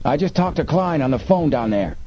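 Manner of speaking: high smuggler's call; yell. A narrator's reading. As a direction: yell the news over in a high voice. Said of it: "the other yelled".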